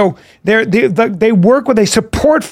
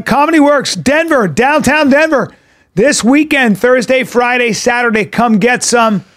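tour date plug; 2 semitones higher than usual. Acted. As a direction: hype up the shows like a promo spot. Reads his tour dates.

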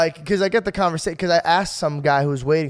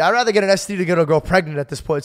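louder, rushed mock panic; panicking; 3 semitones higher, 4 dB louder than usual. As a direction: gabble it out like a panicking kid. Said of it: "I was like".

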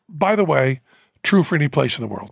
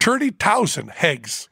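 put-on Newfoundland accent; 2 semitones higher, slower than usual. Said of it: "the Newfoundland accent".

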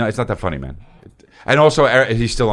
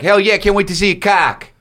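put-on much higher eager girl's voice; higher, hammed-up eager woman; mock eager chick; 9 semitones higher than usual. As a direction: play a thrilled woman at a party. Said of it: "chicks that were like".

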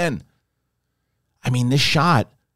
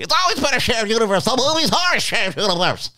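much higher mock voice; imitating Kalinowski; 12 semitones higher than usual. Mocking his friend's argument, much higher put-on voice. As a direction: parody a friend's know-it-all line.

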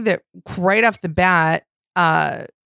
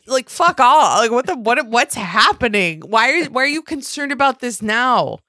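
annoyed; 5 semitones higher, 3 dB louder than usual. Real, not acted. Annoyed rant.

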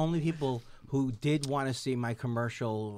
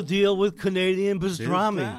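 Seinfeld impression; 3 semitones higher than usual.

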